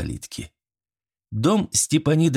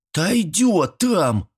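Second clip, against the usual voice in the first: put-on high, slow child's answer; careless boy; 10 semitones higher, much slower than usual. Boy carelessly answers his granny, high child's voice. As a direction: toss it off like a kid.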